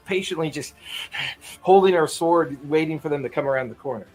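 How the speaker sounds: usual speaking voice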